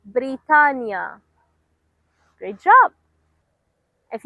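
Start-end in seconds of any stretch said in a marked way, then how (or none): 0.0-1.2 slowly. Shown as a demonstration. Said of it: "Last time".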